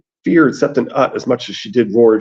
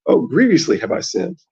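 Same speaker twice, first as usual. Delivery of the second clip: mild wail; 7 semitones higher than usual. A narrator's reading. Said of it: "the Septon wailed".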